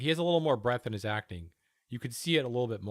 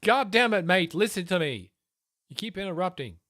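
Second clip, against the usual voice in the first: frustrated shout; 5 semitones higher, 5 dB louder than usual. Real, not acted. Yelling at interrupting pundit.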